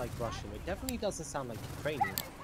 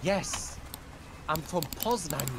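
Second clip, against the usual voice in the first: indignant retort; 4 semitones higher than usual. Retold or imitated. Traveller answering border guard, retold indignant insistence. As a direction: insist on it, word by word.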